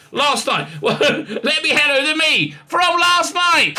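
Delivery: high and loud, laughing through it; giggling at himself, slow and high. Real, not acted. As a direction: laugh your way through the handover. Laughs at own handover.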